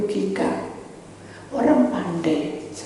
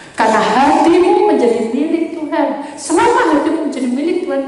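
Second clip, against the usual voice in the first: high, loud proclamation; loud preached declaration; preaching at full force; 7 semitones higher, 8 dB louder than usual. Real, not acted. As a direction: proclaim it to the whole church. Preaching climax.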